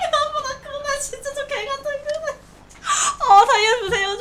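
high, weepy pleading; half-crying for help; tearful whining. Real, not acted. Begging, near tears. (울먹이는 하소연)

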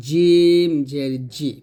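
জিম জের জি, loud and drawn out from mid-tongue; tongue-to-palate jim. Shown as a demonstration. Teacher models jim's articulation point, long palatal জিম. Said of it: "জিব্বার মধ্যখান তার বরাবর উপর তালুর সঙ্গে".

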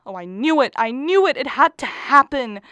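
wife sure her husband has fallen, panicking; panicked wail. Acted. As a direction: let the dread spill out.

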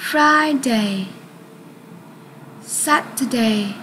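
each day read as a separate model word; model word list. Shown as a demonstration. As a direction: read each day clearly, then pause for repeating. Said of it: "lặp lại một lần nữa nhé". (đọc mẫu từng thứ cho học sinh)

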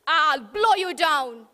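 lightly voiced wolf demanding entry; wolf at the door. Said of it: "the wolf replied".

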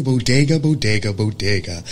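bodega, stepping down; falling bodega repeats. Shown as a demonstration. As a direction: let each bodega drop down. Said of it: "General American".

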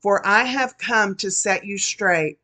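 solemn prophecy spoken in God's voice; prophetic word. Acted. Prophesying to the congregation as the Lord, solemn proclamation. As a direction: proclaim it as the Lord speaking to his people.

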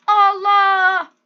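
loud startled exclamation; shocked cry. Real, not acted. Gamer startled by the goat, loud surprise. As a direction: blurt it out in shock.

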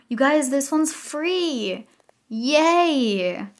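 high, loud and thrilled; real gasping joy; excited squeal. Real, not acted. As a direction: squeal it out with delight. Gasp, shouting about free hairstyle.

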